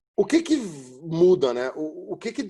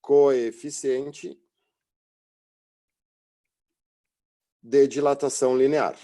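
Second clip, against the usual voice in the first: "coeficiente de dilatação linear" spoken very slow and louder, word by word; slow dictation; 4 dB louder, slower than usual. Shown as a demonstration. Teacher telling students to write the term down: slow and loud. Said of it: "Anota ali".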